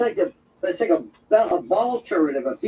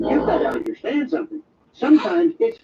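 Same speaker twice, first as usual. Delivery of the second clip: ordinary delivery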